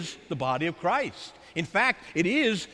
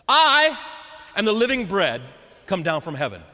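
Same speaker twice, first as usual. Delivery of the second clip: proclaiming loudly; 4 dB louder than usual. Acted. Jesus declaring himself to the Jewish crowd, loud proclamation. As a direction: announce it like a proclamation.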